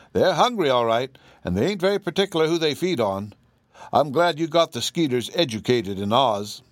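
a hint of a plain-spoken Kansas farm wife; folksy Aunt Em. Aunt Em tells the Oz folk about Kansas flies, lightly voiced.

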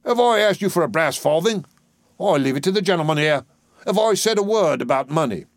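high-pitched, aggrieved Cockney dustman; protesting dustman. Acted. Doolittle protesting.

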